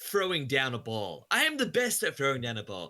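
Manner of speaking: mock boasting with absolute conviction; sarcastic overconfidence. Podcaster demonstrating confident nonsense to co-hosts, sarcastic bragging. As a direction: brag absurdly, pitch climbing on the biggest claims. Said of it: "obviously I'm being sarcastic".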